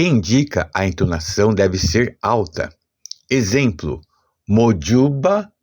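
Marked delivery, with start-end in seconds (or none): 4.5-5.5 slow Yoruba pronunciation of "mojuba", lifting "ju"; Yoruba tone demo. Shown as a demonstration. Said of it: "a sílaba ju é a mais forte".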